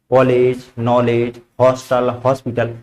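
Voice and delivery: कॉलेज, नॉलेज said with the open ऑ sound between आ and ओ; ॉ vowel between aa and o. Shown as a demonstration. Teacher demonstrating the English ऑ sound to the class, open and clear. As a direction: stretch the ऑ in कॉलेज and हॉस्टल, halfway from आ to ओ. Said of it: "आ और ओ के बीच में आती है".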